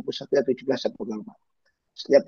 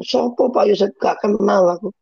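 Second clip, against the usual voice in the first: mock snub; 8 semitones higher, 4 dB louder than usual. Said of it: "Saya bikin".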